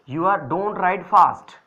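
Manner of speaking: teacher modelling the correct sentence, very slow; slow model sentence. Shown as a demonstration. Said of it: "जैसे".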